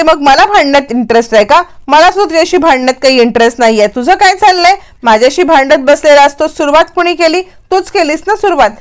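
quick, high, indignant comeback; heated retort. Acted. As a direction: throw the blame right back at him.

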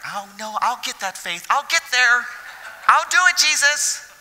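John vowing to Jesus he'll get there, building eagerness; eager John. Retold or imitated. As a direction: plead it like an eager young disciple. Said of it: "And John's like".

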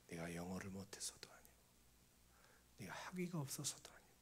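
low, hushed, sorrowful voice of God; imitated divine lament, low and weighty; sad, heavy voice. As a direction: grieve it softly, almost whispered. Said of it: "이 슬픈 목소리가 들리는 거예요".

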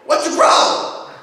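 high, whispery clucking chicken voice. Acted. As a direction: squawk the line like a cartoon chicken. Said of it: "I sound like a chicken".

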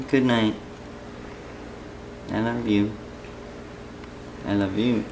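ordinary talk

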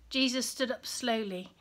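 put-on reading a Bible story aloud to children; gentle storyteller reading; story narration. A narrator's reading.

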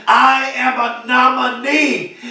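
deliberately calmed-down restatement; calmer. Real, not acted. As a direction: rein the excitement in and say it slowly. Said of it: "so let me calm down".

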